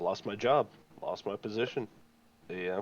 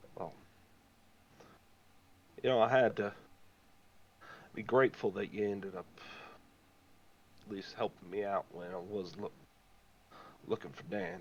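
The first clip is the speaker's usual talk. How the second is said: soft, hushed whisper under the breath; 5 dB quieter than usual. A game character speaks to the player, whispering. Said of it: "He kind of whispers like".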